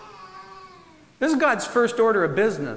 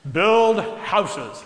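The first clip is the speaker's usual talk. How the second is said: booming God voice, louder; 3 dB louder than usual. Shown as a demonstration. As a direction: proclaim it like God from the sky. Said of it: "I do my, my God voice".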